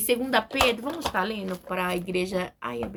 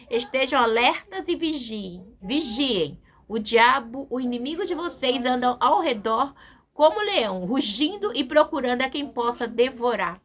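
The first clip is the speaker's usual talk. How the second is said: forceful preaching; 6 dB louder than usual. Shown as a demonstration. Preacher repeating the verse to the church, booming. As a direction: proclaim it like a battle cry. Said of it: "é muito forte, igreja".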